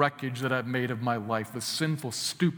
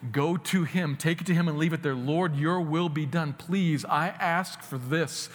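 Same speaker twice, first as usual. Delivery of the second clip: urgent plea; 4 semitones higher, 3 dB louder than usual. Acted. Urging listeners, voicing a plea.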